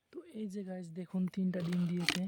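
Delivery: real whisper near the nest; hushed so the bird won't fly. Real, not acted. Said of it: "তো আস্তে আস্তে কথা বলছি". (ফিসফিস করে বলা)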